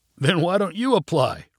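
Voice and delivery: good-natured, playful teasing tone. Answering a lieutenant's warning about a new post, in a teasing voice. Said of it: "replied Tommy in a teasing voice".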